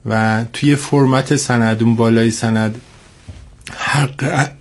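congested, sick-sounding voice; voice with a cold. Real, not acted. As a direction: speak through a head cold. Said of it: "یکم سرما خوردم".

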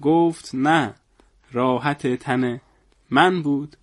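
measured recital with pauses between half-lines; poem recitation. Acted. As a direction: recite it in earnest, saving the punchline. Recites a comic poem in earnest. (شعرخوانی با لحن جدی)

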